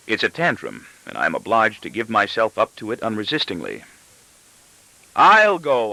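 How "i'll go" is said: raised, tearful outburst; crying out. A narrator's reading. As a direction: blurt it out like a hurt child in a tantrum. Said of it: "I cry".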